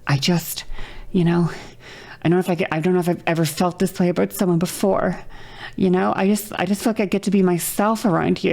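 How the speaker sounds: a hint of a swooning girl, quick and breathy-free; lovestruck contestant. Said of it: "and they are like".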